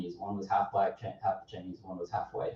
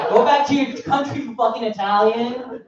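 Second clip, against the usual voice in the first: mock racist yell; 13 semitones higher, 6 dB louder than usual. Imitated racist shouting.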